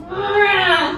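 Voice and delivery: short mock scream; mom's retold scream. Mom waking family at night, mock scream. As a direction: yelp it like mom waking everyone. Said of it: "just starts screaming".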